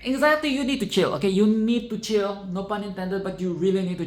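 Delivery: fed-up viewer scolding the screen; exasperated scolding. Real, not acted. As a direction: tell her off from your seat. Scolding the character Anxiety.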